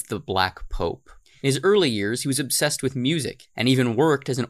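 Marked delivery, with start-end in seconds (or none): 0.0-1.1 the Black Pope said low and slow; Black Pope said low and slow, ominous; dark and ominous. Shown as a demonstration. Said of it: "the Black Pope is supposed to sound dark and ominous".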